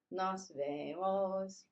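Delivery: drawn out for learners; slow farewell. Shown as a demonstration. Teacher repeating goodbye slowly for the class. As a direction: model it slowly. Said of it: "Let's try it again".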